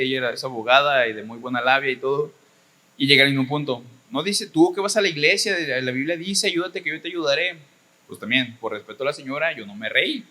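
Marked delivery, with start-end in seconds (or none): 4.1-7.6 a touch higher, lightly mimicking her lecture; hint of a know-it-all aunt preaching; lecturing lawyer. Sister-in-law lecturing, quoting Bible.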